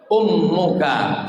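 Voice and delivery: the Prophet answering, drawn out; solemn answer. Acted. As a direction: answer slowly and gravely.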